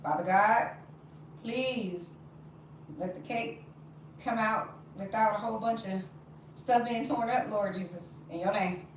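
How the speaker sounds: beseeching prayer with pauses; pleading prayer. Real, not acted. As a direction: pray over it, phrase by phrase. Mock-earnest prayer over the cake.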